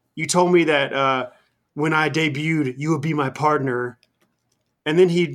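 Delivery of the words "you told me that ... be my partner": ordinary talk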